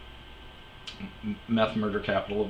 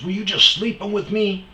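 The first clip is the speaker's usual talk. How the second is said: much higher, louder mock yell of a stranger; imitating the dude; 11 semitones higher, 8 dB louder than usual. Stranger yelling at him over the weed eater, imitated high and loud. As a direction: squawk it like the guy who came up yelling. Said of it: "He goes".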